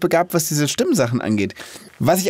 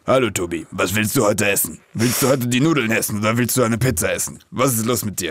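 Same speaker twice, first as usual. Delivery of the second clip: much lower, big booming Italian chef; deep Italian chef; 4 semitones lower than usual. Retold or imitated. Host imitates the giant Italian chef greeting him, much lower. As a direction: rumble it like a huge Italian restaurant owner. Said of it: "So ein riesengroßer Italiener".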